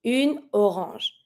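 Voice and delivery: Une orange, slow, N linked into the O; careful French une orange. Shown as a demonstration. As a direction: link the N of Une into orange slowly. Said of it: "A N makes the sound en".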